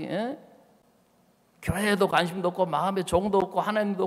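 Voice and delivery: retold spouse lashing out in anger; angry scolding. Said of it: "뭐라 한 줄 알아요?".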